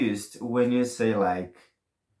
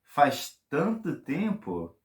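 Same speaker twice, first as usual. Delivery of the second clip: amazed; much slower than usual. Shown as a demonstration. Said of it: "Or you can say".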